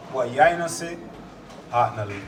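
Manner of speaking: measured Jamaican patois; Jamaican proverb. Shown as a demonstration. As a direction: recite it in Jamaican patois, pausing midway. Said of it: "I give a Jamaican proverb".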